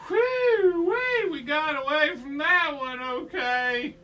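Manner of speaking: high, loud mock relief, settling toward the end; relieved whoop. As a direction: whoop with the relief of a narrow escape. Heroes relieved after the escape.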